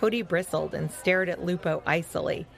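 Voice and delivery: animated, measured storytelling voice; story narration. A narrator's reading. Telling young listeners about Fetcher's adventure, story narration. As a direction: read it out clearly for young listeners.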